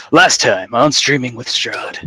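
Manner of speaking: voiceover. Acted. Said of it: "I will go with the most passable voiceover voice".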